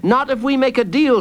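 put-on high-pitched child's voice; bold child. Jacob makes his threat to Hooded Fang, bold. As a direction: bargain boldly in a child's high voice.

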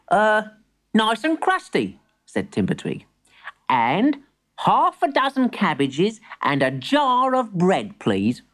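put-on high, careful little boy; innocent boy voice. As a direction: read the list earnestly. Boy keeps ordering.

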